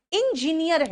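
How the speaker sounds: "इंजीनियर" starting with "in"; IN- mispronunciation. Retold or imitated. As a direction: imitate learners hitting "in-" in "इंजीनियर". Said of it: "आप इंजीनियर नहीं हो". ("इंजीनियर" की शुरुआत इन से)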